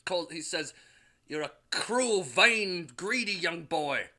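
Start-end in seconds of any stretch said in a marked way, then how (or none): 1.3-4.1 raised, stern father's rebuke; angry scolding. Acted. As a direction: scold the boy, voice lifted. Odin scolds Thor.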